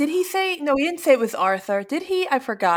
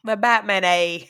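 mock Canadian, wandering off; badly faked Canadian accent; 3 semitones lower than usual. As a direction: have a clumsy go at Canadian. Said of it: "that Canadian accent".

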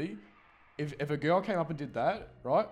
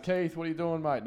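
higher-pitched retold call; mild mock yell; 6 semitones higher than usual. Retelling Tess calling downstairs to Keith, mild mock yell. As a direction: call out lightly, imitating the character. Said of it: "Tess yells out".

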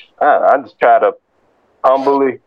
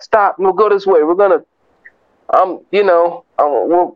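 lightly voiced Saul; 6 semitones higher than usual. Voices Saul's sudden conversion.

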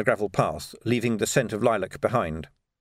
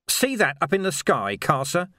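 higher-pitched, intense lawman confronting a captive; grim lawman, menacing; 7 semitones higher than usual. Acted. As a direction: press the threat home.

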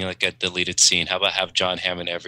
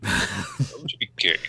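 John Hamm impression; 5 dB quieter, slower than usual. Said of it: "That's my John Hamm".

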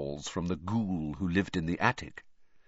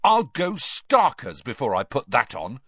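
mildly stubborn; 4 semitones higher, 5 dB louder than usual. A narrator's reading. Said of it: "said Ron stubbornly".

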